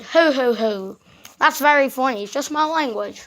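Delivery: put-on British bear accent; playful mock-British voice. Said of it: "Why are you so British?".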